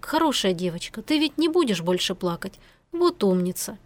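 soothing. Acted. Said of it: "ровным, спокойным тоном".

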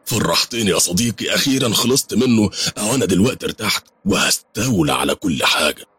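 overjoyed. Acted. The pasha thanking his friend, overjoyed and gleeful. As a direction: celebrate the rival's end, delighted. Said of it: "وهو في قمة الفرح".

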